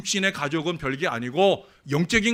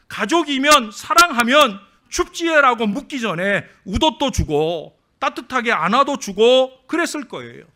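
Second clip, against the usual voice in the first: higher, louder preaching at full force; 7 semitones higher, 8 dB louder than usual. Acted. Pastor drives the story's lesson home to the church, preaching loud. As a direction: build the moral with rising force.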